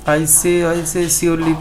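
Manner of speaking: lightly voiced Oxford accent protesting. Teacher voicing Sir Mohan's protest in a light Oxford accent. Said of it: "in his Oxford accent".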